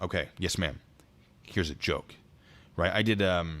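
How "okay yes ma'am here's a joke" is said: ordinary talk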